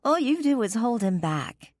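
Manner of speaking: Kimber's voice, high and mocking; catty rival. A narrator's reading. Rival sneering at Gwen to break her.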